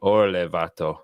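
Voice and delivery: Spanish slang in an Irish-tinged accent; Mexican Spanish accent. Shown as a demonstration. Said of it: "Say it again".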